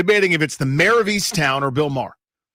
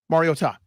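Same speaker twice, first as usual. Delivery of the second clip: Mariota with an overdone final "TAH"; smugly corrective Mariota, last syllable stressed as "TAH"; over-totting. Retold or imitated. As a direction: imitate someone overdoing the end of Mariota. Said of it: "He was over-totting".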